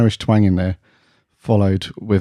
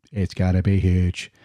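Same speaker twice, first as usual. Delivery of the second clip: Trump impression. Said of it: "Terrible impressions".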